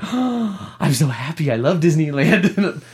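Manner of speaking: slow, dreamy delight; acted-out blissful awe; really happy. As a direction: gush slowly, as if overcome with joy. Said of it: "I was really happy at first".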